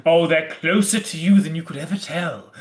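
hammed-up villain innuendo; mock Bond villain. Host hinting at the children's fate, mock Bond villain. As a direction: gloat knowingly in a send-up of a film villain. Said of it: "sort of a James Bond villain line".

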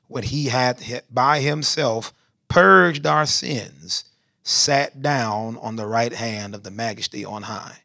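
declaimed Bible verse, swelling on key phrases; scripture reading. Real, not acted. Preacher reads Hebrews to the congregation, declamatory scripture reading. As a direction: proclaim the verse, then settle at its close.

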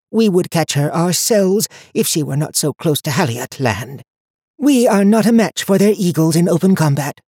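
put-on high, cold voice of an old seer; stern old woman. A narrator's reading. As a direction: speak down to him like a haughty elder. High Watcher voiced in story.

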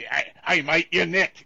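hammed-up Cockney accent; mock Cockney. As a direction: put on a broad Cockney shout. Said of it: "It, it's, it's not like".

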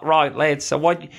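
put-on Aussie coaching patter; best Aussie accent. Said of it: "I'm gonna do my best Aussie accent".

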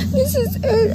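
high, crying with laughter; laughing mock panic. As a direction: squeal This is it between laughs. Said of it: "I was like".

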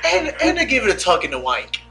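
put-on British accent. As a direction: play it up as a Brit. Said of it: "I need the British one".

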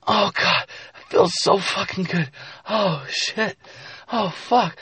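high, put-on female falsetto; woman in pleasure. Narrator voicing the woman mid-encounter, high acted moaning. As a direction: moan it in a high mock-female voice.

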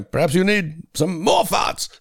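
slow, high hammed-up character voice; spooky ride announcer. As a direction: savour it like a cartoon showman.

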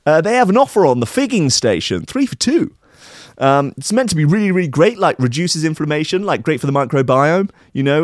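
lightly hammed-up mate pushing an offer; voiced mate. He says.

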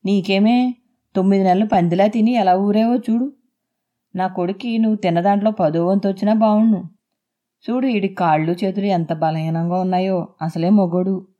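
sneering, coarse taunt; husband mocks his wife after childbirth with a sneer; crude mockery. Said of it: "వెకిలిగా నవ్వాడు".

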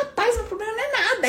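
high, quick dismissive relief; relieved exclaim. Retold or imitated. Debtor comparing debts, high quick cheerful shrug. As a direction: brush your problem off cheerfully. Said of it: "Você fala".

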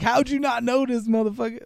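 high, loud incredulous jab; mock outraged yell. Viewer yelling at the screen in disbelief, mock loud. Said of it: "You're like".

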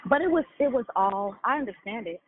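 breathless, between breaths; out of breath and talking. Real, not acted. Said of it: "I'm out of breath".

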